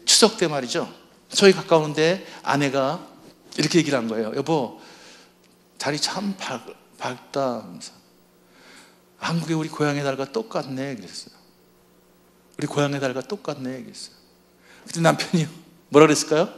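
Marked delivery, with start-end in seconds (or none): 4.4-7.6 soft, dreamy murmur at the moon; wistful wife. Retold or imitated. Wife to husband at Chuseok, softly wistful. 9.2-11.0 soft, longing murmur; wistful wife. Retold or imitated. Wife to husband about the moon, softly longing. 12.6-13.8 soft, longing murmur; wistful wife. Retold or imitated. Wife repeating to husband, softly longing.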